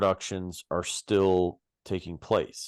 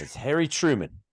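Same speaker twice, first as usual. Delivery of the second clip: high mock British voice; British accent; 8 semitones higher than usual. Shown as a demonstration. Podcaster showing his best accent, high mock British. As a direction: finish in your put-on British accent. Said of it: "get your best British accent out".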